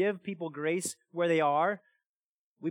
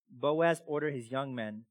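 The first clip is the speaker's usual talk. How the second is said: normal talking voice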